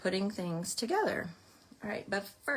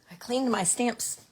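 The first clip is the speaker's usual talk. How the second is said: out of breath; 4 semitones higher, 6 dB louder than usual. Real, not acted. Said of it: "now I'm out of breath".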